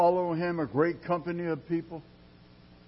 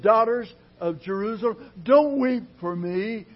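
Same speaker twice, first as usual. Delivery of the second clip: Jesus calling out; 5 semitones higher, 4 dB louder than usual. Acted. Jesus voiced again.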